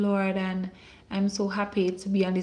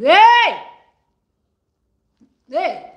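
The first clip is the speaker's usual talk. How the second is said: high loud cry of praise; ecstatic shout; 10 semitones higher, 13 dB louder than usual. Real, not acted. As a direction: burst out in joy. Ecstatic outburst while preaching.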